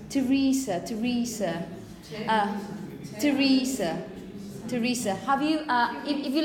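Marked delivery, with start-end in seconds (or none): 0.1-5.1 Teresa with a hard T at the start; T sound. Shown as a demonstration. Teacher models Teresa with a T. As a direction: say Teresa with a T, never TH. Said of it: "pronounced as a T".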